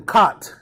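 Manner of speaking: "cot" as one short word, like the bed; mistaken pronunciation. Shown as a demonstration. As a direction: read "cot" as a single syllable. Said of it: "You don't pronounce it cot".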